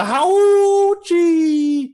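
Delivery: high, loud yelping howl; wolf yelp. Acted. GM voices wolf yelping in pain.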